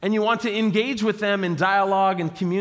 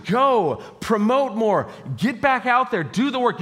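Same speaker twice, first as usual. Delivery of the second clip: urging; 3 semitones higher than usual. Acted. Acting out the crowd's urging.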